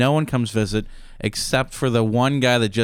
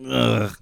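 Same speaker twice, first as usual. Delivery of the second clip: fake cough. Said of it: "he's pretending to be sick".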